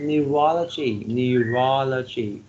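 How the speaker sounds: neurology with the stress on RO; stress second syllable. Shown as a demonstration. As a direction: say neurology as neu-RO-lo-gy, leaning on RO. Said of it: "the second syllable receives the stress".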